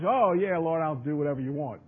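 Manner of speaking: mock eager agreement without thinking; quick, unthinking eagerness. Preacher imitates Peter answering the Lord, quick and unthinking. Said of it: "Peter was always very quick".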